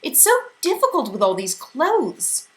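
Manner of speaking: plaintive. A narrator's reading. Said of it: "Missus Watsit said plaintively".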